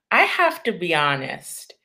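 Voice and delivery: whispered confession. Real, not acted. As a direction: breathe it out, unvoiced. Confessing a painful answer.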